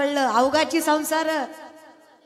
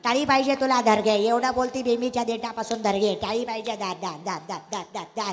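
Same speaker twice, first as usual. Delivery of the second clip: grudging mock clapper; 9 semitones lower than usual. Preacher mocks listeners' stingy clapping, low and grudging. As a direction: mimic a crowd clapping as a favour. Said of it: "तुम्ही टाळी कशी वाजवता माहिती आहे का?".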